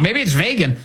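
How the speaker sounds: "vegan" said VAY-gun, mock doubtful; mock alternate vegan. Shown as a demonstration. Host mock-wondering if "vegan" is VAY-gun. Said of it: "maybe I'm wrong".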